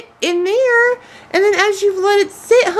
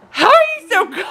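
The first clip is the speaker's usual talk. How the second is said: wide-eyed laughing quote; 5 semitones higher, faster than usual. Retold or imitated. Retelling his shocked question, laughing and incredulous. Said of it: "your eyes were like".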